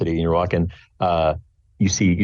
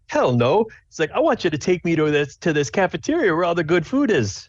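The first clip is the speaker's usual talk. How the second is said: higher-pitched, eager dad; lightly voiced dad; 10 semitones higher than usual. Dad wants the cafeteria, lightly voiced dad. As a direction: lightly play a dad keen to eat. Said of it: "your dad goes".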